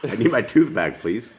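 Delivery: high, hammed-up victim pleading, laughing through it; mock victim. Beaten victim calling after the muggers, high hammed-up plea. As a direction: play the beaten-up guy begging for his tooth back.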